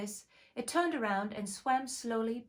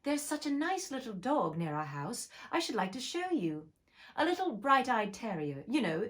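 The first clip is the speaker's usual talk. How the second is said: put-on brisk lively girl voice; a touch of eager, raised chatter; 3 semitones higher than usual. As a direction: gush about the dog eagerly. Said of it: "so Alice went on eagerly".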